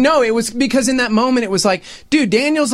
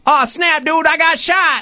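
higher, slow dying gasp; dying line; 6 semitones higher, slower than usual. Retold or imitated. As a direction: deliver a goofy last line as you go down. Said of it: "That was my delivery".

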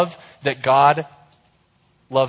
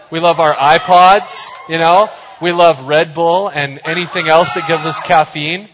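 excited shout; 6 dB louder than usual. Pretend. Mock crowd listing loves.

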